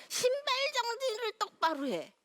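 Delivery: high, loud stern order; scolding parent. Retold or imitated. Parent home from work snapping at the child, loud and high.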